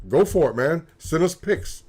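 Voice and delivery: normal talking voice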